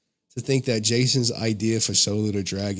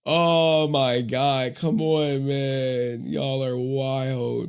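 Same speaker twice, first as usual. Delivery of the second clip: exasperated; 4 semitones higher, much slower than usual. Real, not acted. Lights broke again, exasperated.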